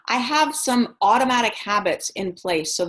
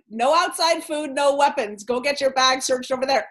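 higher, singsong parody of the door rule; mock doorman voice; 5 semitones higher than usual. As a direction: parrot the doorman with amused disbelief. Repeating doorman's rule, mocking.

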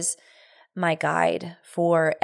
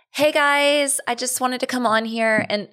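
high-pitched mock livestream host; Facebook Live impression; 6 semitones higher than usual. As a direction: parody a girly livestream intro, pitched high. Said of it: "My Facebook Live impression".

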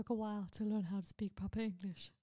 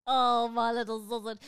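cooing to dog; 3 semitones higher, 8 dB louder, slower than usual. Real, not acted.

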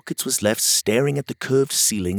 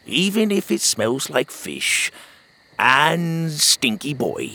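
lightly voiced old sea dog, slow and fond; old sailor; 5 semitones higher, slower than usual. Otis answering Pockets on the boat, slow old sailor voice. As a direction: savor the words like a gruff old grandpa.

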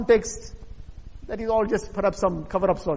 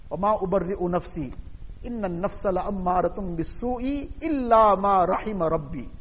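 quick, flowing recitation of the verse; Quran recitation; much faster than usual. Acted. Preacher recites a Quran verse to the congregation, quick chanted recitation. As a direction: recite the Arabic verse in a quick melodic run.

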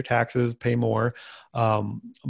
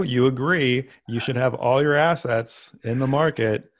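mock-earnest sarcasm, a bit higher and more emphatic; sarcastic; 3 semitones higher, 3 dB louder than usual. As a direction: lean into the irony, pushing it harder. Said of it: "note of sarcasm here".

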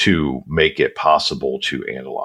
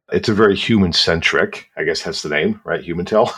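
ordinary talk, nothing marked

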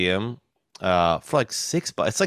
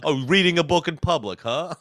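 high teasing lisp voice; mock him with a lisp; lisping impression; 7 semitones higher than usual. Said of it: "Why do I sound like a mix of Max Fine and Rojo Perez in your impression?".

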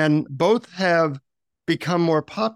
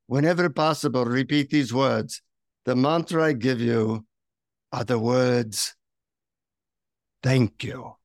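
imitated Indian guru, slowing and dropping low; guru's hushed Indian accent; 3 semitones lower than usual. Guru leaning in to share the secret mantra, hushed Indian accent. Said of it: "he leans in to whisper in my ear".

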